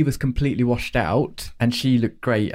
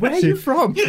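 mock nosy voice; 13 semitones higher than usual. Mocking ignorant question.

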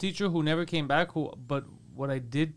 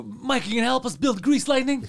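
higher, louder hammed-up old-timey line; old-timey movie voice; 8 semitones higher, 6 dB louder than usual. Kids in an old film urging Mike to help, old-timey ham. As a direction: camp it up like an old musical. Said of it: "it sounded very old-timey".

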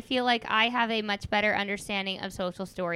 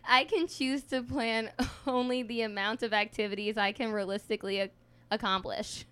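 stifled giggles. Real, not acted. Giggling through reading her story.

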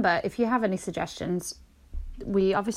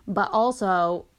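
put-on American accent. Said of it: "not that specific to this accent".

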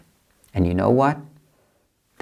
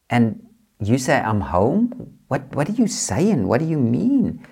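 a mild, disbelieving protest pitched higher; puzzled and pushing back at an answer that makes no sense; baffled questioning; 4 semitones higher than usual. Retold or imitated. Retold baffled questioning of God.

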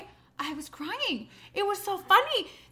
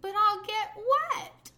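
put-on whiny toddler; 8 semitones higher, much slower than usual. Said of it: "he's like".

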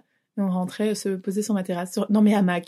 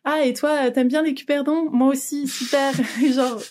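eager chirpy voice; 5 semitones higher than usual. Retold or imitated. Acting out early friendship chat.

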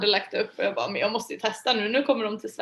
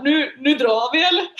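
louder, half-laughing urge to leave; retold nervous suggestion to bail; mock nervous; 4 semitones higher, 7 dB louder than usual. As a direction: jokingly panic and want out.

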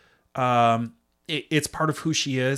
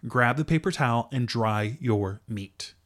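mock bossy order. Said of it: "That's what she's saying to the viewer".

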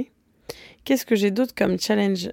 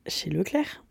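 whispering; 6 dB quieter, slower than usual. Real, not acted. Whispered story aside.

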